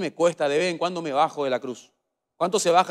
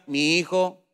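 high nasal pleading grandma, climbing higher; grandmother's nasal voice; 7 semitones higher than usual. Retold or imitated. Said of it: "Con su voz nasal, mi abuela me decía".

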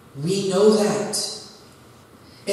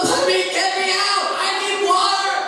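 mock yell; 8 semitones higher than usual. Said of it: "I'm not yelling".

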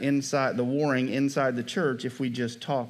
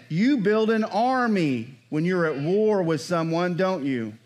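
slow emphatic repeat; 4 semitones higher, slower than usual. Shown as a demonstration. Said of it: "Let's try it again".

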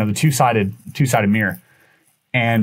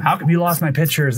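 higher-pitched mock scolding, no real volume; retold yelling; 5 semitones higher than usual. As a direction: imitate an indignant telling-off at talking level. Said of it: "starts yelling at them".

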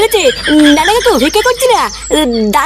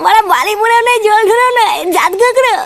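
put-on drunk. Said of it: "তুই রাত্রিবেলায় মদ খেয়ে এসছিস?".

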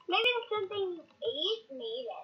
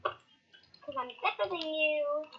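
smug taunt; slower than usual. Acted. Rival gloats.

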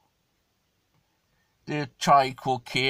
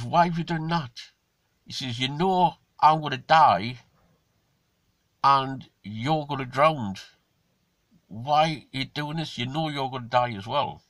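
dying frog pleading; 3 semitones higher, 4 dB louder than usual. Acted. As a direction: ask why in disbelief. Dying frog asks why.

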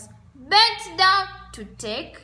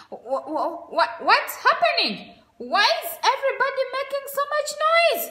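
sleepy confused hippo; 11 semitones higher than usual. Acted. Sleepy Humphrey just woke.

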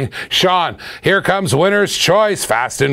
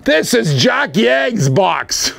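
excited shout; 6 semitones higher, much slower than usual. Real, not acted. Showing off huge mailed box.

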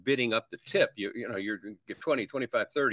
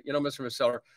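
assertive no; 2 semitones higher than usual. Shown as a demonstration. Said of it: "assertiveness and forcefulness to say".

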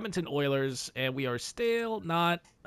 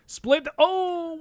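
shocked oh; 11 semitones higher, slower than usual. Real, not acted. Overtime goal against.

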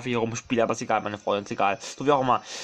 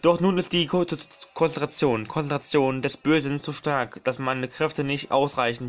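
put-on louder, slow solemn old tree; Deku tree voice; 2 semitones higher, 4 dB louder, slower than usual. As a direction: intone like an ancient guardian tree. Liest Baumtext vor. (feierliche Baumstimme, lauter und langsam)

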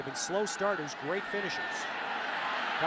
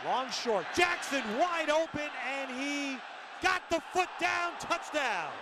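excited shout; 4 semitones higher than usual. Real, not acted. Touchdown catch call.

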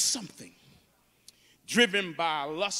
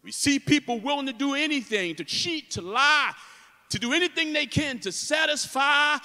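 raised, urgent sermon voice; impassioned preaching; 7 semitones higher, 4 dB louder than usual. Real, not acted. Preacher exposing the emptiness of worldly thirst, impassioned. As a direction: drive the warning up high to the congregation.

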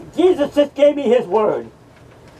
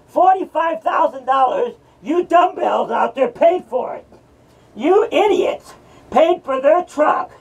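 angry rant; 3 semitones higher than usual. Acted. Ranting at the donors.

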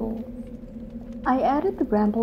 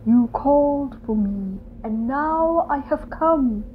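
rasped; 4 semitones higher, 5 dB louder than usual. Acted. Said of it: "rasped the radio".

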